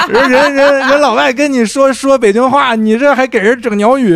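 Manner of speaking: loud, slow, high teasing Beijing cabbie; imitating the Beijing cab driver. Cab driver teasing the narrator, loud mock Beijing cabbie. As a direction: ham up the amused driver scolding.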